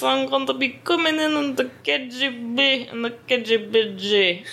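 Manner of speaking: playful seductive Russian spy voice; sexy Russian accent. Pretend. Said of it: "I'm going to do the sexy Russian voice".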